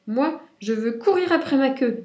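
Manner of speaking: eager cheetah voice; excited cheetah voice. A narrator's reading. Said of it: "dit le guépard".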